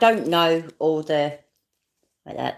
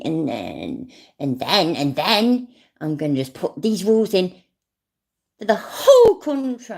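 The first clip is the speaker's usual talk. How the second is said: mocking impression. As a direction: mimic his rambling boasts, building up. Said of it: "the way he's just talked".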